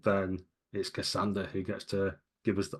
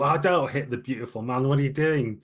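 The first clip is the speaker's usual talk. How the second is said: pleading crowd voice; 4 semitones higher, 5 dB louder than usual. Acted.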